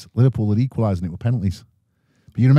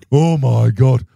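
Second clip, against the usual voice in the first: panicked mum; 6 dB louder, slower than usual. Retold or imitated. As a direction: squeal like a frightened mother. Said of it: "My mother".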